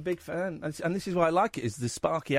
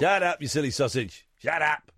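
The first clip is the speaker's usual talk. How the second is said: mock scolding. Host mock-scolds the caller.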